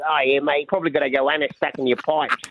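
imitating an offhand, unbothered neighbour; very casual. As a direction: toss it off casually, like old news. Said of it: "very casually".

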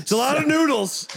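smug overconfident guess; Mister Confidence. Pretend. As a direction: say it like you're sure of everything. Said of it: "That was Mister Confidence".

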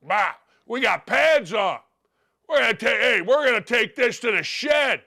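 put-on old-timer coach bluster, harumphing; old-school coach. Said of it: "those of you that are old like me think".

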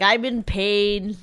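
slow, drawn-out mock moan; mock complaining. Woman mimics partner complaining beside one-legged brother, mockingly plaintive. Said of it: "and you're like".

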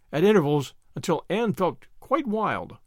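usual speaking voice

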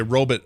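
"robot" as ROH-but; dorky reduced ending on "robot"; ironic mispronunciation. Shown as a demonstration. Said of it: "ironically sometimes, just to be dorky".

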